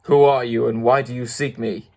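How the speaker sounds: understated roaring challenge; mild beast roar. Acted. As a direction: demand it like a big beast. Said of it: "in a voice that was one great roar".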